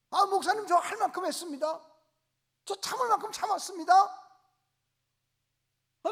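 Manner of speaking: hammed-up complaining congregant; indignant churchgoer. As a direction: whine loudly to the pastor that you've done enough. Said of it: "다 이러고 싸우기 시작하거든".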